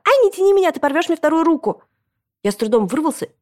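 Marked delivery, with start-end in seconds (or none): 0.0-1.8 put-on high, loud protesting child; pained yelp. A narrator's reading. Boy dragged by his mother, yelping in protest. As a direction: yelp while being pulled by the arm.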